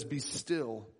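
low, soft and hushed; soft low stillness, almost a hush; calm divine voice. Acted. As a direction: speak it like a quiet command to rest. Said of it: "God says".

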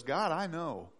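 soft, low, calm confidence; hushed, steady trust; trusting prayer. Acted. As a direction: pray quietly, fully at peace. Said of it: "A believer's prayer says".

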